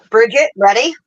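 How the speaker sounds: normal talking voice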